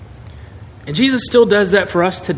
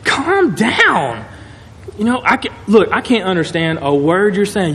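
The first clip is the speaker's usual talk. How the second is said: calming her down; 4 semitones higher than usual. Acted. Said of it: "and they're like".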